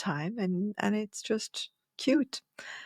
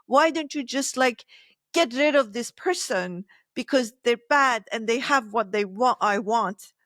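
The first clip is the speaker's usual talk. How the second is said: put-on childish inner voice; 3 semitones higher than usual. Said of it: "I talk like this because it talks like that".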